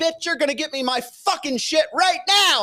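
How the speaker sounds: put-on very high, rushed, furious angry screaming. Retelling a fight with the woman in charge, retelling an angry scream. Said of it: "And I'm screaming".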